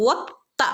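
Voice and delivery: വത്ത with a thickened ta; heavy ta. Shown as a demonstration. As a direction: press the ta in വത്ത firmly. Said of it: "ഒന്ന് കനപ്പിച്ചു കൊടുക്കുക". (വത്ത കനപ്പിച്ച്)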